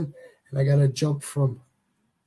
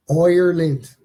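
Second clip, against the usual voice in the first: louder Irish-accented "Ireland" with an OY start; attempted Irish accent; 7 dB louder, slower than usual. Shown as a demonstration. Host trying an accent on the suggested country, attempted Irish accent. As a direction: try out an Irish accent, loud. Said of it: "if I got the right accent".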